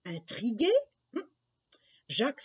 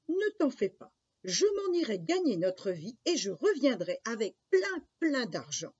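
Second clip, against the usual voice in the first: put-on lightly eager little boy, higher at the start; bright-eyed eagerness; 4 semitones higher than usual. Jacques promises his mother money, lightly eager. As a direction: reassure with a touch of excitement. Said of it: "les yeux pétillants".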